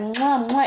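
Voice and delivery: spoken mock kiss sounds; light, exaggerated mwah smacks; imitated kisses. Imitating her kissing at me, light mock kisses. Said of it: "and she's like".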